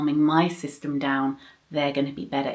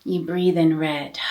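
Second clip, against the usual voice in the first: guided breathing; 3 dB louder than usual. Shown as a demonstration. Demonstrates the breathing meditation script.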